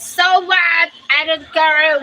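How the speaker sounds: mock defiant shrug. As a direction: brush off the rooster. Defiant reply to rooster.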